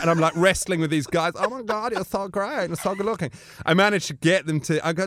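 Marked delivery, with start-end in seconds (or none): 1.4-3.3 high, soft camp Austrian voice; gay Austrian character. Retold or imitated. Bruno admiring the wrestlers, high camp gushing. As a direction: gush in a high Austrian accent. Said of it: "the gay character".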